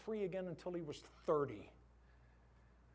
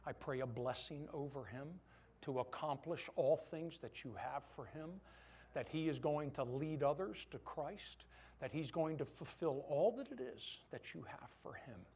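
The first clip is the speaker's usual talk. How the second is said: quiet prayer; 3 semitones lower, 4 dB quieter than usual. Retold or imitated. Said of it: "I held him and I said".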